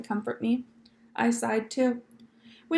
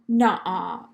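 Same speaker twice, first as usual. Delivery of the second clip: whispered disbelief; 4 semitones lower, 5 dB louder than usual. Acted. Girl disbelieves the bear story.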